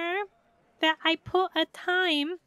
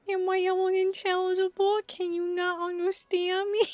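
laughing; 3 semitones higher than usual. Real, not acted. Laughing at own voice.

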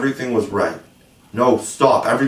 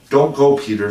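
higher, louder plea; entreating; 5 semitones higher, 5 dB louder than usual. A narrator's reading. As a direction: plead with him to stay, voice raised. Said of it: "she entreated".

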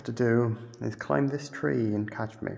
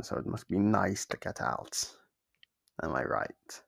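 ordinary talk, nothing marked

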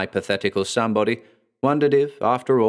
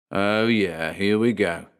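muttered cynically; slower than usual. Acted. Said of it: "Blackgarden muttered cynically".

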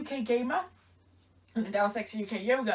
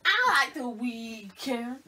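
drawn-out voice; much slower than usual. Real, not acted. Repeat, slower, altered voice.

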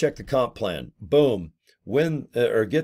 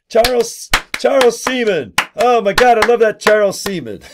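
put-on much higher, louder kids' squeal; giddy child voices cheering a name; excited kids; 11 semitones higher, 8 dB louder than usual.

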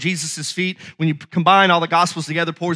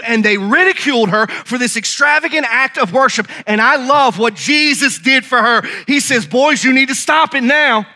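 higher, driving pulpit storytelling; fervent preaching; 5 semitones higher than usual. Acted. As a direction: press the story home with conviction.

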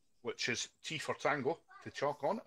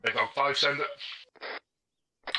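radio voice; 3 semitones higher, 7 dB louder, much slower than usual. Acted. Radio reply in training.

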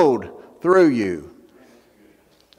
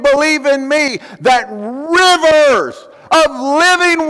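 higher, slow proclaiming call to the crowd; retold shout; 6 semitones higher than usual. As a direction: call out to the whole crowd, slowly. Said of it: "and he takes his hands and he shouts".

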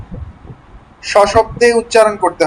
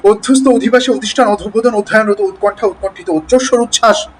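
brisk word-list drill, every consonant articulated; quick, accurate reading. Shown as a demonstration. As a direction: read quickly but keep each word exact. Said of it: "উচ্চারণ ঠিক রাখতে হবে".

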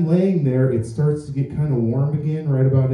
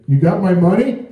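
mock caring son; 5 semitones higher, 4 dB louder than usual. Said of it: "as caring as he could, and said".

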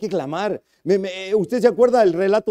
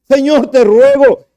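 higher, louder, slow cry to God; a fervent clamor; loud slow plea; 10 semitones higher, 15 dB louder, slower than usual. Acted. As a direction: stretch out the begging. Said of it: "un clamor a Dios".

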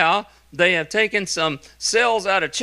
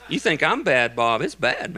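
laughing; 3 semitones lower than usual. Retold or imitated. Laughing through retold banter.

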